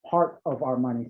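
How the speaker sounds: Boston accent, dropped R in part; slipped into a Boston accent. Real, not acted. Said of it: "sorry, my Boston accent came out in that".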